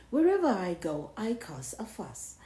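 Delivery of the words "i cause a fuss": whisper. Acted. Boastful aside.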